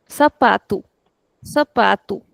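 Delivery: "Sapatu" with the stress on the middle "pa"; teacher modelling "Sapatu", second-last syllable stressed; model pronunciation. Shown as a demonstration. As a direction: say "Sapatu" as sa-PA-tu, lengthening the "pa". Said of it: "This is how we pronounce it".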